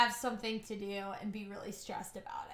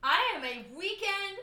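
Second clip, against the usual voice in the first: defiant declaration; slower than usual. Acted.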